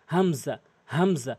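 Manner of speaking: "হামজা" begun from the start of the throat; throat-start pronunciation. Shown as a demonstration. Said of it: "হলকের শুরু থেকে হামজা". ("হামজা" হলকের শুরু থেকে উচ্চারণ)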